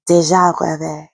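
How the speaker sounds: French accent with a softened r; attempted French accent. Shown as a demonstration. Trying out how to say the term, French accent. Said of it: "That's my best French accent".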